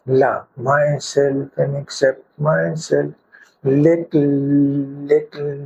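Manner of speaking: slow monotone chant, words evenly drawn out; guided affirmation meditation. Shown as a demonstration. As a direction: lead a repeat-after-me mantra, slowly and steadily. Leads a tapping affirmation meditation.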